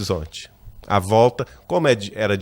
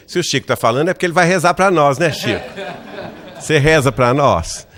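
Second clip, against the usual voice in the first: laughing plea; 4 semitones higher, 4 dB louder than usual. Retold or imitated. Jokingly begging Chico for prayers.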